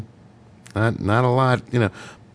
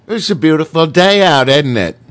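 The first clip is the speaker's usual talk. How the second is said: higher-pitched British accent; 4 semitones higher, 3 dB louder than usual. Shown as a demonstration. Showing the British phrase, put-on British accent. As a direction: play it British, lifted in pitch. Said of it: "The British".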